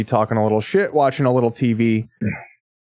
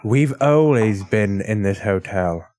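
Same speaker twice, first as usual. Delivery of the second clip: hotel hospitality voice; 3 semitones lower, slower than usual. Retold or imitated. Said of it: "very shining and very, uh, professional".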